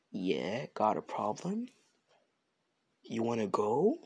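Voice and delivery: low challenge with rising question ends; confrontational challenge. Acted. Couple answer Mina asking if they are dating, confrontational. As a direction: square up, each question rising at the end.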